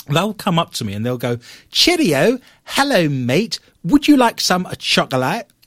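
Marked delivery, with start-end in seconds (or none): 1.7-5.5 over-the-top fake British accent, pitched up. Imitating how Americans come up and greet him, American's fake British accent. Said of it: "I'm now going to do the impression of an American doing a British accent".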